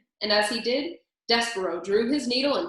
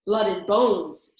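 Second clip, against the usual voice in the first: gleeful shout; 6 dB louder, slower than usual. A narrator's reading. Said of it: "shouted another".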